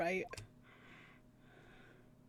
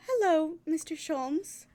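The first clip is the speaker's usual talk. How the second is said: higher, slow sing-song hello; sing-song greeting; 7 semitones higher, 5 dB louder than usual. Acted. Player greeting Mister Sholmes, slow sing-song voice. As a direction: stretch the hello out sweetly.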